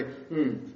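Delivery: soft low hmm tacked on; a low hum under the breath to close; trailing hmm. Shown as a demonstration. Preacher showing the closing hum, soft and low. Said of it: "put a hmm at the end of their words".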